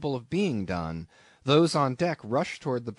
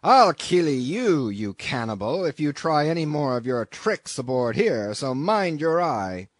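loud, angry captain; bellowed warning from a ship's captain; roaring threat; 3 semitones higher, 6 dB louder than usual. A narrator's reading. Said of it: "roared the captain".

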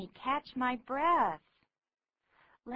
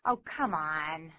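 Oh come on, scoffing at a boast; disbelieving; 5 semitones lower than usual. Acted. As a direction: call out the bragging. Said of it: "你这是吹牛".

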